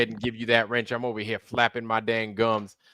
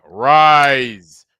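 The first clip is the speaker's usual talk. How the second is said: commanding shout; 13 dB louder than usual. Acted. Commanding new knight to rise.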